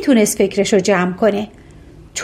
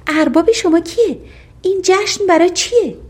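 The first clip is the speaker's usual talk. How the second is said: lightly curious, higher-pitched questions; 8 semitones higher than usual. A narrator's reading. Princess questions the cooks about their master, lightly curious. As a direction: ask with a touch of curiosity, voice lifted. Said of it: "کنجکاو شد و پرسید".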